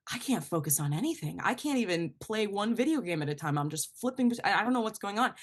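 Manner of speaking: lightly acted scattered overwhelm, tripping over the words; frazzled roommate. Roommate admitting they can't focus this morning, frazzled.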